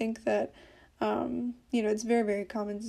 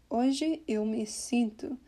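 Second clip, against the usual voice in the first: "Hoje eu me sinto" slowly, word by word; words cut apart; slower than usual. Shown as a demonstration. Teacher showing the weird unblended way, "Hoje eu me sinto" slowly cut apart. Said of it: "kind of cut the words apart like that".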